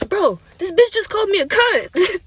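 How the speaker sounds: high, loud imitation of an outraged girl; mock scream. Girl screaming out to the whole class, high and loud. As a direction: scream it out like an indignant kid. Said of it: "And this girl screams out".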